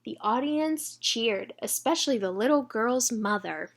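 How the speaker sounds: put-on bright read-aloud for children; storybook reading. A narrator's reading.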